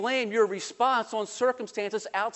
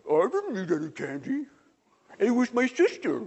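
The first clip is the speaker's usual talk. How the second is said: put-on innocent child; 3 semitones higher than usual. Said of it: "he looks at you with big eyes and he goes".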